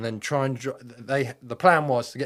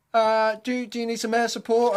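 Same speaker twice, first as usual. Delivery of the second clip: imitated pilot; 12 semitones higher, 4 dB louder than usual. Imitating the bomber pilot's offer.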